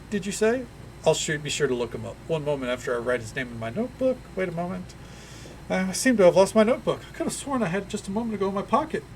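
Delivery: high, eager, ingratiating; halfling tourist asking favor. Acted. Halfling asks the party for exciting places, eager and high. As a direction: sweet-talk for a favor.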